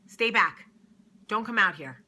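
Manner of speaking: loud big-sister warning; angry big sister. Retold or imitated. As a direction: bark it like a bodyguard holding the door. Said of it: "Anger's like".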